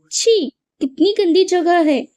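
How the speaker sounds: mild demo disgust; a light "chhee" of distaste, rising a bit. Shown as a demonstration. Teacher demonstrating an interjection of disgust, lightly. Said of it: "छी, यह शब्द क्या कहलाएगा".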